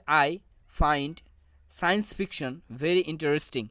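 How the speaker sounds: slow reading with science fiction stressed. Shown as a demonstration. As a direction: lean on "science fiction" and give it weight. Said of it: "এখানে সায়েন্স ফিকশনের উপর জোর প্রদান করা হয়েছে". ("science fiction" শব্দে জোর দিয়ে ধীরে পড়া)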